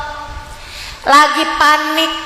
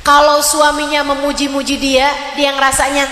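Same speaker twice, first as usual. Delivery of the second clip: ordinary talk, nothing marked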